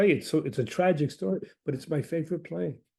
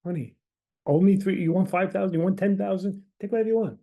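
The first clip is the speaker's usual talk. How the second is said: eager offer; 4 semitones higher than usual. Retold or imitated. Patient voicing her eager generous self.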